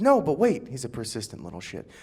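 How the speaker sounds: put-on high, loud pleading little kid; whiny kid voice. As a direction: beg like a persistent eleven-year-old. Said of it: "he goes".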